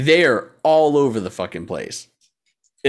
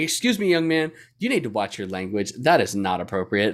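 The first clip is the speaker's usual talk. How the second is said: wholesome teacher; 3 semitones lower than usual. Retold or imitated. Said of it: "wholesome teacher going".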